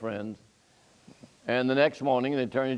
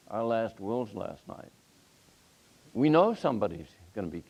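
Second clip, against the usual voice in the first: calm and placid; 2 semitones lower, 4 dB quieter than usual. Retold or imitated. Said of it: "her voice was as calm and as placid".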